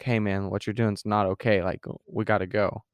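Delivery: spoken up, direct warning; firm warning. Acted. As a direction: warn a friend outright, in full voice. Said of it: "Or you're gonna be like".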